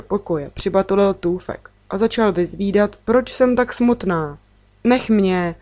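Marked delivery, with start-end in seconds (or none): 4.8-5.5 mild snapped retort. Acted. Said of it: "odsekla jsem".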